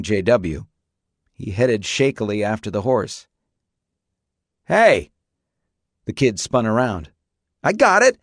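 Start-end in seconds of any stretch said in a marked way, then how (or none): 4.6-5.1 louder call to get attention. A narrator's reading. J W calls after boy, calling out. 7.6-8.2 high, loud defiant answer; yelled. A narrator's reading. Boy yells back at neighbor, defiant yell. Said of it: "he yelled".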